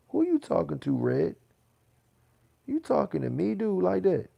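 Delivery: loud, high, heated challenge; angry callout. Real, not acted. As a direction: get in his face, loud and high. Confronting chatter The Red on stream.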